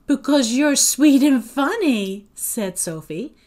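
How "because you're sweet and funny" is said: high, loud, gushing compliment; bright flattery. A narrator's reading. Sophie reassures her doubting friend, gushing. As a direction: gush it out, pitched up.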